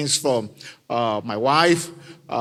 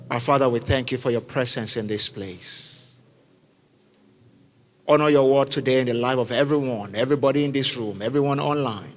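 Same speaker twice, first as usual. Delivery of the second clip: prayer. Acted. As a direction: lead the room in prayer, earnest. Leads congregation in prayer.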